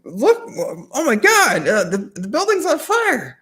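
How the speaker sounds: mock distraction. Magician points away to fool the crowd, hammed-up fake panic. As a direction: cry wolf like a bad magician.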